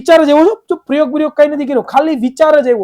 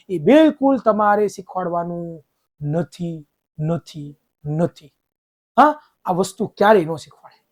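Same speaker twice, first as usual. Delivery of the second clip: firm refusal; 7 semitones lower, 6 dB quieter, slower than usual. Real, not acted. Teacher firmly refusing student advice.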